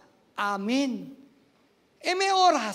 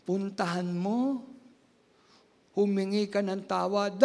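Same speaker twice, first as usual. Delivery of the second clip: voice of God; 4 semitones lower than usual. Retold or imitated. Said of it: "nangusap ang Diyos sa akin".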